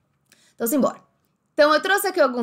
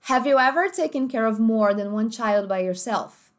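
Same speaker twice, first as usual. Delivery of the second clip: "more" with a full American r, like "morr"; American accent; slower than usual. Shown as a demonstration. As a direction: stress the r in "more". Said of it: "Americano, primeiro". ("more" com r americano bem marcado)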